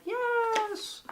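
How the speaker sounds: a high, delighted yes; excited yes. Pretend. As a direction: squeal it like the card nailed it. Excited viewer agreeing with card.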